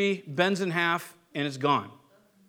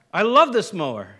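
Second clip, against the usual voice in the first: mock mournful cry; 5 dB louder than usual. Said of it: "start weeping and be like".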